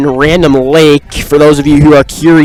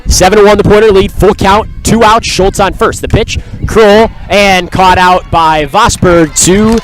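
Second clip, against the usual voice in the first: excited; 4 semitones higher than usual. Real, not acted. Full count, third out called.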